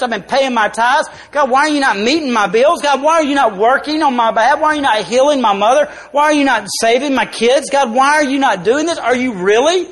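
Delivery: hammed-up complaint to God; mock upset prayer. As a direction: demand answers from God, pushing harder.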